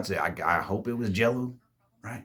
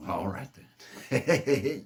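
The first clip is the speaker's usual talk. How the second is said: hushed; much slower than usual. Retold or imitated. Awkward reply to quiet girl.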